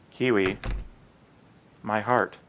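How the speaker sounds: barely getting the words out between breaths; breathless Yuri. Acted.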